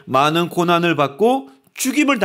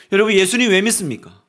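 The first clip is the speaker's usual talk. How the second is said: ordinary talk, nothing marked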